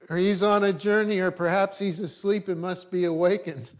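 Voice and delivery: mocking sarcasm. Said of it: "Elijah mocked them, saying".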